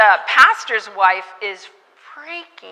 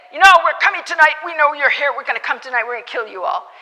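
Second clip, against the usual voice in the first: lightly voiced menacing threat, louder at first; threatening drunk men; 5 semitones higher, 5 dB louder, faster than usual. Drunk men at the gate threatening to come back tonight, lightly menacing. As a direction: threaten them through the gate. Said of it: "And then they said".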